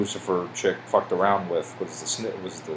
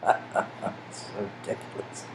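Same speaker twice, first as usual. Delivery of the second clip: laughing; 11 dB quieter, slower than usual. Real, not acted. Laughing at the odd picture.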